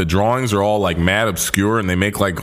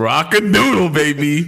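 excited; 7 semitones higher than usual. Real, not acted. Excited recognition.

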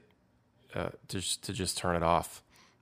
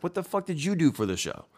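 a raised, put-on voice of an annoyed promoter; mock angry promoter; 9 semitones higher than usual. Musician mimics a promoter angry about a small crowd, in a mock higher voice. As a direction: throw the promoter's complaint back, higher and scornful.

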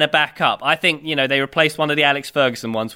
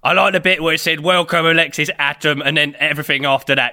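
cocky Cockney footballer; lightly put-on Cockney, dismissive; Cockney accent. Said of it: "I speak like a Cockney".

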